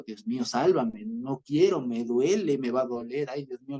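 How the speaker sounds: half-laughing, hammed-up cry for help; mock pleading, pressed on each complaint; mock desperate plea. Teacher parodies a wrong idea of Jesus praying, mock desperate plea. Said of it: "No es que el Señor Jesús está diciendo".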